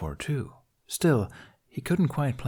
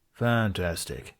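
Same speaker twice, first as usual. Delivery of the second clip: sarcastic mutter; 2 semitones lower, slower than usual. Acted. Tired captain to his guards, a slow sarcastic mutter. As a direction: mutter it, fed up. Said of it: "the captain muttered".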